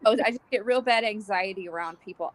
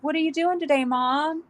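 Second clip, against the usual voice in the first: mimicking daughter; 8 semitones higher than usual. Daughter's voice imitated.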